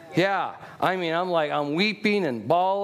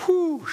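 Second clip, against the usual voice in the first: sudden high-pitched whew; high whooped whew; 12 semitones higher than usual. Real, not acted. Preacher after "faith jumps", high whooped whew. Preacher exhales mid-sermon.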